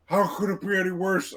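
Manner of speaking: lightly voiced grumbling orc; a hint of a worried orc. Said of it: "one orc going".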